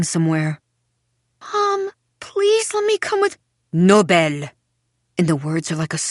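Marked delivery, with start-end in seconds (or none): 1.5-3.4 put-on high child's pleading voice. A narrator's reading. Child pleads with leaving mother. 3.7-4.5 loud, curt no; sharp refusal. A narrator's reading.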